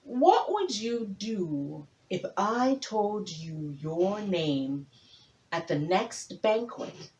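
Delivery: slow, teasing tortoise voice; slow sly tortoise. Acted. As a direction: draw the question out like a cunning tortoise. Tortoise speaks.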